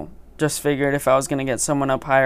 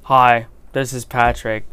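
Patrick impression; 4 semitones lower, 3 dB louder than usual. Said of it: "That was my Patrick impression".

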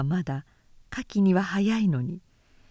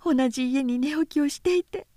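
put-on high, hushed young woman's voice, half whispered; piecing the truth together under her breath; Nao, shaken realisation; 9 semitones higher than usual. Nao alone in her room recalling her husband, high and hushed.

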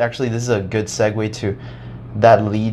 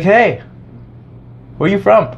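higher, laughing, called-out greeting; monk's greeting; 10 semitones higher, 5 dB louder than usual. Retold or imitated. A monk greets an American student, laughing loud. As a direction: laugh while voicing the monk's loud hello. Monk voiced in retold story.

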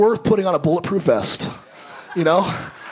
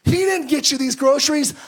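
sneering landlord; 8 semitones higher, slower than usual. Retold or imitated. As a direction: taunt her, much higher and dragged out. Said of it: "He said".

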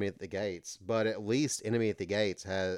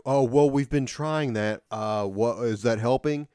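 mock Khrushchev; 5 dB louder than usual. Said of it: "And he's like".

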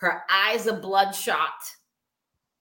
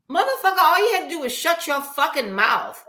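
angry; 6 semitones higher, 4 dB louder, faster than usual. Real, not acted. Ranting about a man.

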